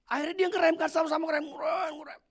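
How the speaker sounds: animated storyteller voice; excited retelling. Retold or imitated. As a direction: paint the near crash with energy. Retelling sudden braking in traffic.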